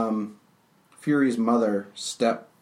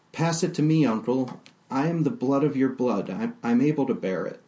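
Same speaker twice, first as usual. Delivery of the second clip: put-on higher, eager young woman's plea; eager young Fury; 4 semitones higher than usual. Fury pleading with her uncle to take the burden, higher and eager. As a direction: step up boldly and ask for the burden.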